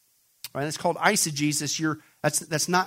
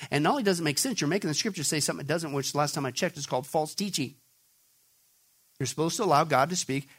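hushed rebuke; 3 semitones lower, 5 dB quieter than usual. Acted.

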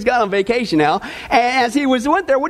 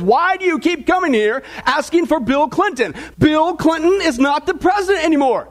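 a retold Marine losing his patience, raised but not shouted; mild mock yell at a pestering visitor; 4 semitones higher than usual. Marine yelling back at Don who keeps returning, mild mock yell. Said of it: "He yells back at Don".

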